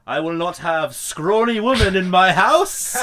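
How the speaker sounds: loud, high hammed-up old-timey bellow; old-timey stern man. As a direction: boom it like a pompous 1960s patriarch. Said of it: "Philip comes up to her and just straight up goes".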